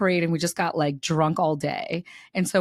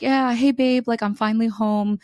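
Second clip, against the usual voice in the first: put-on a higher, louder breezy boyfriend voice; mock casual boyfriend; 5 semitones higher, 4 dB louder than usual. Mocking her cheating boyfriend's breezy lie. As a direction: play the lying boyfriend, light and easy. Mimicking boyfriend's fake texts.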